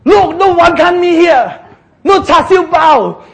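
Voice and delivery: mock complaint, laughing through it; mock whining complaint. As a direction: whine like hungry grumblers. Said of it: "They say".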